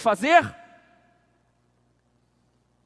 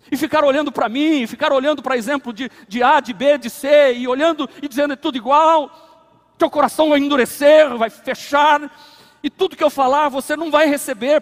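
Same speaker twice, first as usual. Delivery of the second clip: loud, high, driving sermon voice; fiery preaching; 4 semitones higher, 6 dB louder than usual. Acted. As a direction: preach it hard to the congregation. Pastor preaching at full force.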